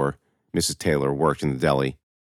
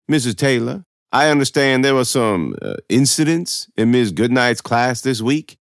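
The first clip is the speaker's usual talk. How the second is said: higher, pointed administrator voice; pompous official questioning; 7 semitones higher, 4 dB louder than usual. Acted. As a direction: question a parent as a self-important official. Narrator voices Mister Toll.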